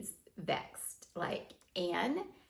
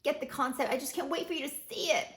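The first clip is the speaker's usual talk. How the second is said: gushing promise; 5 semitones higher than usual. Retold or imitated. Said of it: "and I'm like".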